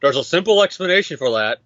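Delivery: flat robotic monotone delivery. Pretend. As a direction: say it like a deadpan robot. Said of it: "Gotta do my best monotone voice".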